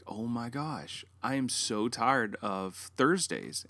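mildly exhausted parent, retold; acted weariness. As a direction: drag it out, worn down. Parents' weary reaction retold.

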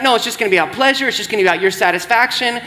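fast, coaxing whisper-free tempter; a lightly voiced devil, rushing you into it; Satan luring the congregation, quick and pushy; tempting Satan voice. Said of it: "Satan uses it to be like".

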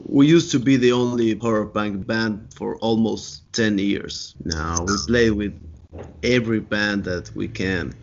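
ordinary delivery

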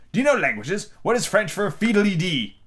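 high, slowing queenly question; examining Red Queen. A narrator's reading. Red Queen testing Alice on languages, imperious. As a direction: quiz her imperiously.

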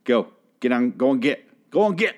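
retold order to leave, rising in pitch at the end; half-hearted yell, imitating someone ordering people out; mild mock yell. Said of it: "he yells at him to leave".

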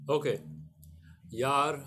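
put-on light Indian accent, casual. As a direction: say it like an Indian bro. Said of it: "In an Indian accent".

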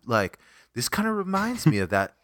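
unhurried retelling of a friend musing; lightly voiced friend sharing a vibe; imitated friend. Retelling a friend's music chat, lightly imitated friend. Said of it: "And he's like".

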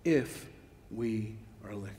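normal talking voice

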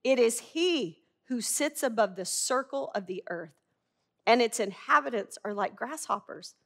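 measured, reverent reading of the passage; scripture reading. Acted. Preacher reads Isaiah to the congregation, reverent and measured.

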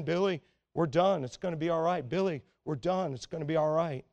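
understated, slightly hushed calm-dad voice; calm reassurance. Retold or imitated. Dad by the car coaxing Billy, quietly calm. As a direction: retell a patient father's gentle repetitions. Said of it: "the dad was just calmly saying".

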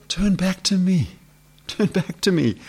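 high-pitched, measured appeal; calling back. Acted. Voices God calling people back.

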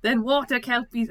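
attempted Scottish accent. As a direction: stumble through the poem in a poor Scottish accent. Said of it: "I can't do Scottish".

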